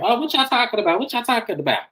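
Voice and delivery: high-pitched mock prying; nosy busybodies. Family ambushing a private conversation, high nosy imitation. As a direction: pipe up high, butting into their talk.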